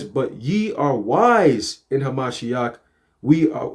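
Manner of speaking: slow, solemn verse reading; scripture reading. Acted. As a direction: read the verse slowly and deliberately.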